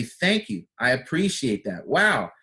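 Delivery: grateful reply to a compliment; grateful thanks. Shown as a demonstration. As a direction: thank them and mean it.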